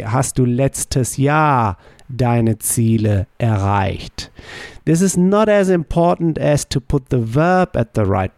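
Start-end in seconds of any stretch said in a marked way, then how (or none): 0.0-4.3 slow, clear reordered question; slow model variant. Shown as a demonstration. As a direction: read it slowly as an option. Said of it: "You can say".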